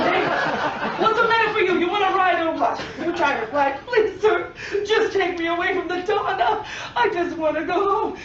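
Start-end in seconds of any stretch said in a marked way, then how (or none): 0.1-2.8 comic pushy boatman, pitched up; hammed-up impatient gondolier. Gondolier challenges the passenger. 3.8-8.2 comic desperate plea; mock pleading. Pleads to escape the Don.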